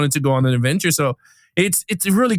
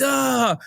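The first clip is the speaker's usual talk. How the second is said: mock falling cry; 8 semitones higher than usual. Retold cry as he falls.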